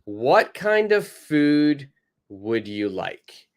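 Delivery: slow, careful model question; teacher modelling the question slowly. Shown as a demonstration. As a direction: spell out each word slowly for learners. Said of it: "person B says".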